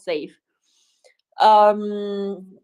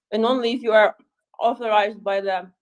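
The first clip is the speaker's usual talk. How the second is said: talking while chewing nuts; words around a mouthful. Real, not acted. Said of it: "sorry, I'm just chewing".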